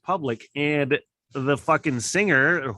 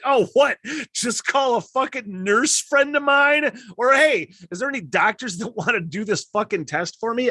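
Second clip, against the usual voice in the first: much higher and louder frantic panic; panic mode; 9 semitones higher, 4 dB louder than usual. Retold or imitated. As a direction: spiral into a loud anxious rant. Mock-panicked retort to Levi.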